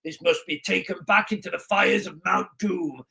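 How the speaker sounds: lightly voiced solemn elf lord; a hint of grave fantasy-film gravitas; mock-epic movie elder, understated; Lord Elrond. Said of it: "Lord Elrond saying".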